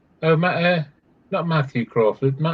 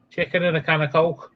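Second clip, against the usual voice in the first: put-on Scottish accent; 3 dB quieter than usual. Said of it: "How do you do Scottish?".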